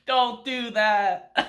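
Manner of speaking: high, drawn-out dismayed pleading; comically devastated, stretching the words out slowly; mock crestfallen. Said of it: "she's just completely crestfallen".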